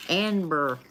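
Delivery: "Amber" in a thick backwoods redneck accent, nasal twang. Shown as a demonstration. Reader mocks her own redneck "Amber" twang. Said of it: "That's totally like a fucking backwood redneck".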